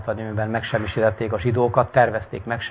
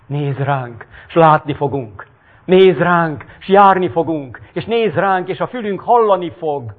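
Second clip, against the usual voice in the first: pleading crowd; 5 semitones higher than usual. Acted. Crowd begging Jesus.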